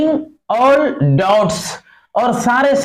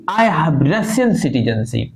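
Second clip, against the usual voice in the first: slow low reading; 5 semitones lower, much slower than usual. Shown as a demonstration. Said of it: "teacher reading text slowly".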